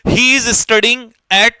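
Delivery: very slow, word by word; slow dictation to students. Shown as a demonstration. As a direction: read it slowly so they can write. Teacher dictating an example sentence.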